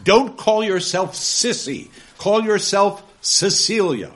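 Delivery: loud, slow and high; stern command. Acted. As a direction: lay down the law. Gradgrind commands the girl.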